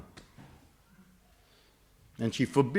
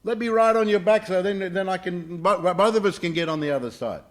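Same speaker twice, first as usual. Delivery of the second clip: high, raised voice hailing someone; calling out; 6 semitones higher, 5 dB louder than usual. Acted. Scorpion begging a camel for a ride, calling out high. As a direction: call up loudly, pitched high. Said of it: "he called out to the camel".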